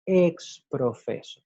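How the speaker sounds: Exprofeso repeated slowly, ex-pro-FE-so; careful repeat. Shown as a demonstration. Teacher repeats the Latin phrase slowly for students. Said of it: "la expresión en latín".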